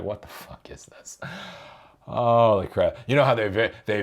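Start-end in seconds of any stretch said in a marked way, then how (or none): 0.0-1.2 a stunned whisper of disbelief. Retold or imitated. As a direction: breathe it out in shock. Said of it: "I was just like".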